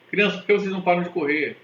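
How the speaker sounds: a fed-up gym teacher scolding. Acted. PE teacher telling lively children to stop running, exasperated.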